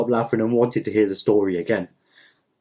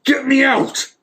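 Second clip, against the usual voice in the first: high, loud, frantic scream; 5 dB louder, slower than usual. Acted. Uncle Dima trapped inside the jar, screaming. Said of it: "he was screaming".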